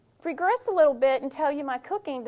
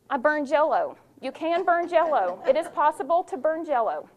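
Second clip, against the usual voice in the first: louder, higher amazed confession; excited disbelief; 4 semitones higher, 5 dB louder than usual. Real, not acted. Telling the audience she burned Jell-O, loud amazed. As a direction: land it like an unbelievable fact. Comic confession of cooking disaster.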